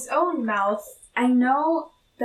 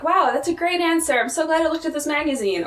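higher-pitched, impressed gushing; imitated genuine enthusiasm; 6 semitones higher, faster than usual. Kendall glad he looked at the magazine, genuinely impressed. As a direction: play sincerely delighted by the answer. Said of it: "Is he genuinely like".

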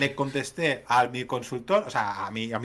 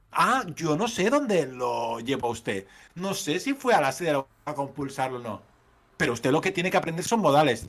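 tono prepotente. Retold or imitated. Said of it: "me lo decía con un tono potente".

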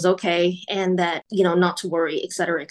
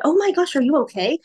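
alarmed mother; 7 semitones higher, faster than usual. Retold or imitated. Mother alarmed by shaking son.

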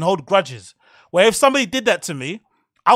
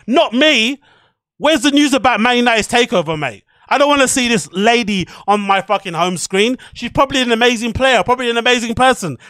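exasperated rant; 3 semitones higher, 4 dB louder than usual. Real, not acted. Ranting at unwanted sports news.

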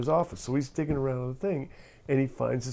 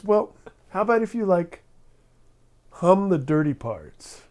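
coaxing reporter; 7 semitones higher, 5 dB louder than usual. Retold or imitated.

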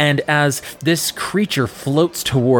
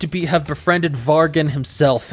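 podcast outro. Acted. Host closes the episode with a cliffhanger teaser.

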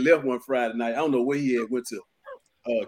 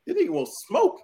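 aggressive thug; 13 semitones higher than usual. Retold or imitated. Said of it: "you can tell by the aggression".

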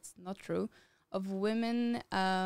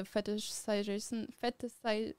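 tripping over a word. Real, not acted. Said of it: "It's a hard word".

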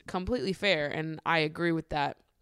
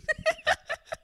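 very high real giggle; high giggling burst; high squeaky laugh. Real, not acted.

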